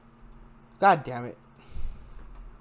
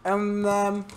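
cheeks stuffed full; 2 semitones higher than usual. Real, not acted. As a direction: mouth crammed with candy. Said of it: "I'm gonna join the challenge".

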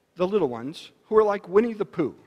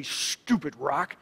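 slow, grumbling mock annoyance; hammed-up Rabbit irritation; mock annoyed Rabbit; 2 semitones lower, much slower than usual. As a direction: drag it out like a grumpy rabbit. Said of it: "Rabbit is quick to anger".

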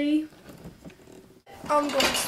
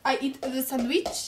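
mock Arab accent, lower and subdued; 3 semitones lower, 6 dB quieter than usual. Vlogger showing off an accent for the camera, Arab accent. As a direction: put on a playful Arab accent. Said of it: "I should do my Arab accent".

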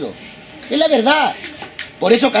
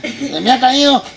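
slow, sobbing little-boy imitation; hammed-up tearful complaint; tearful child; much slower than usual. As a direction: blubber it out like a crying child. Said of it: "lo ve llorando al niño".

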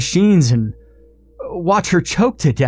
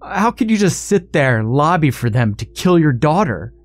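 narrated scream; 7 semitones higher than usual. A narrator's reading. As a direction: climb in pitch as the argument heats up. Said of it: "screamed Blaine".

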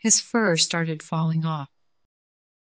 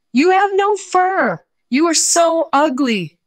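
jeering yell; 12 semitones higher, 5 dB louder than usual. Acted. Forest animals mocking hairless Snowball, high jeering yell. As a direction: yell it at him like a mocking crowd. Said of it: "they yelled".

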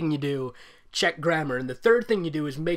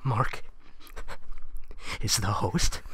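stuttering; 7 semitones lower, 4 dB quieter, slower than usual. Acted. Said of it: "I say, stuttering".

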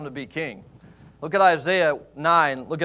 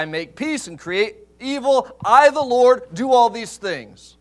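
rising to a loud, higher proclamation; voice of the Lord; 6 semitones higher, 5 dB louder than usual. Retold or imitated. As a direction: declare it as God himself, building up. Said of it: "He said".

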